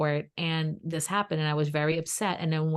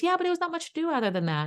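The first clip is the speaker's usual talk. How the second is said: mock cousin; 12 semitones higher, faster than usual. Cousin voiced, high and fast.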